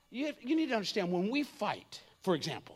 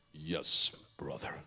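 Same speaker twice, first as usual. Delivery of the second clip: lifeless Christian; 7 dB quieter, slower than usual. Retold or imitated. Preacher mocks churchgoers answering with dead, lifeless voice. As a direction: drop way down into a dead, toneless yes. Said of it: "it's death personified".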